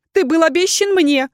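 high, loud, pleading woman's voice; overwrought, high-pitched justification; desperate confession. A narrator's reading. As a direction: pour out excuses, begging to be believed. Accused woman's frantic confession.

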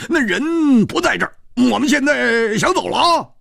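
high, airy, breezy excuse; light laugh. A narrator's reading. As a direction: brush it off with a grin. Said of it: "笑了笑".

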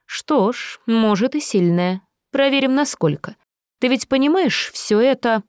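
silky threatening villain; menacing villain. Acted. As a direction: purr the threat with mock affection. Villain toys with instruments.

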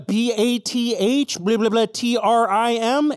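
spelled letters among gibberish, drawn out; human talk as dogs hear it. Acted. Game master voicing human talk as dogs hear it, slow gibberish.

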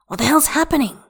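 high-pitched, urgent demand; alarmed. A narrator's reading. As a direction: demand to know what is wrong. Alarmed redial after partner cried.

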